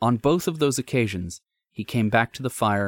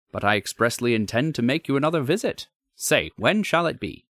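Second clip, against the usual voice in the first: curious visitor; 4 semitones higher than usual. Acted. Visitor's dialogue.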